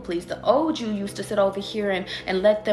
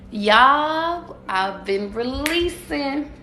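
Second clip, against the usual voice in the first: tired from crying; 4 semitones higher, 4 dB louder, much slower than usual. Real, not acted. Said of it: "my third day crying".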